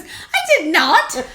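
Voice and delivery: slow, drawn-out denial. Retold or imitated. Friend slowly denying she caused it. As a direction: stretch it out, mock-offended.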